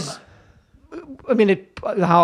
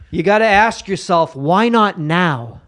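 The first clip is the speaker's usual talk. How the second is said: car commercial voice. Acted. Car ad parody.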